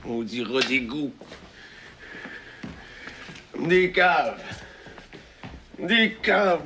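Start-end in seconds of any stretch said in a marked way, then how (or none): 3.5-6.6 angry yell. Acted. Yelling insults at the radio.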